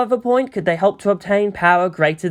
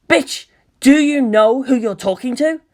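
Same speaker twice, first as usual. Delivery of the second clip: higher, slow arrogant thug voice; thug's threat; 7 semitones higher, 4 dB louder than usual. A narrator's reading. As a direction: sneer it down the phone like a tough guy.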